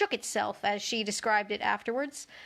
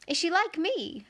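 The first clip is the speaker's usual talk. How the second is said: eager question; 7 semitones higher than usual. A narrator's reading. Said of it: "Alice asked eagerly".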